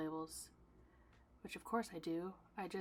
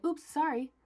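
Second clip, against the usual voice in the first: higher, loud breezy apology; mock error message; 8 semitones higher, 11 dB louder than usual. Shopify kicking her out of the task, mock apology. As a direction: imitate an unhelpful computer apologising. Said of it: "And it would say".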